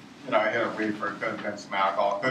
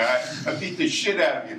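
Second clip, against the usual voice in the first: acted-out threat of a beating; mock tough threat, mildly raised voice; retold angry threat; 3 semitones higher, 4 dB louder than usual. Retold threat to smaller man.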